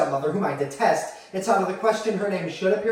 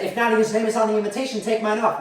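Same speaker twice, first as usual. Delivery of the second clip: mildly raised, indignant mother; mother's curt ultimatum; 4 semitones higher, 4 dB louder than usual. Acted. Mother to child about the invitation, curt ultimatum. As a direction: deliver a firm, affronted ultimatum.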